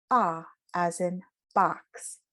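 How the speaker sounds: slow open "Ah" in "box", wide at the back of the mouth; demo of ah vowel. Shown as a demonstration. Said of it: "So hear the difference in the two vowels".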